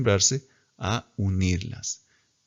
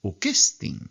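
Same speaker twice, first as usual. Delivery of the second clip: Ukestin with a rise at the end; rising tone. Shown as a demonstration. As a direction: lift the tone of Ukestin again. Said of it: "suben el tono".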